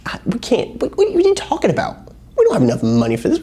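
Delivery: high, flustered, panicky disciple voice. Retold or imitated. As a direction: sputter like a stunned disciple.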